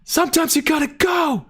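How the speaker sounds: shrieked falsetto yell; high scream. Acted. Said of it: "Andrew's scream voice".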